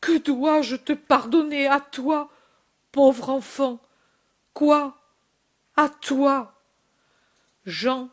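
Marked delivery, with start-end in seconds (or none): 0.0-6.6 higher, anguished disbelief; a mother's heartbroken questions; heartrending voice. Acted. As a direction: plead in anguish over the poor child. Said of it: "d'une voix déchirante".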